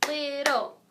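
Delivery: "Little" drawn out in two claps; syllable by syllable. Shown as a demonstration. Teacher clapping out syllables with children, "Little" split in two. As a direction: say "Little" in two separate beats. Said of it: "let's clap it on three".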